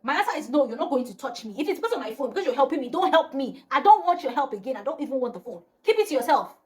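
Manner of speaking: retold furious rejection of the lawyer's help; angry refusal. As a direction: slap his offer down, furious. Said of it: "I was pissed".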